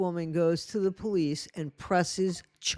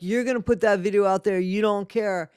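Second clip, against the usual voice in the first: quick, careless mock threat; mock dismissive threat; faster than usual. Mocking the panelist's careless threat. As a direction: toss it off like you don't care. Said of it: "You were saying it like".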